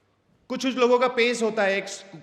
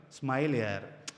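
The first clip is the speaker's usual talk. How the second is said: lower, softer, with a smile; smiling demo; 8 semitones lower, 7 dB quieter, slower than usual. Shown as a demonstration. Speaker demos a word said with a smile, soft. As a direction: let the smile be heard. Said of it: "तो इसमें smile होना चाहिए".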